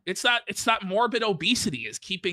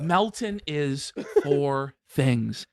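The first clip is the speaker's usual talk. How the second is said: imitating Coach Red Pill. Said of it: "Coach Red Pill".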